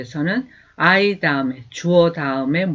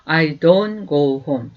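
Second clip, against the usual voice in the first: slow, clear teacher's model, each word apart; slow demo pronunciation; slow model sentence; much slower than usual. Shown as a demonstration. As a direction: say it slowly for students to repeat. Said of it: "do not을 써서".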